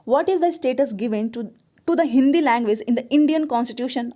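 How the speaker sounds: reading the question out very slowly, word by word. Acted. Teacher reading an exam question to students, slow and deliberate. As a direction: dictate it slowly to the class.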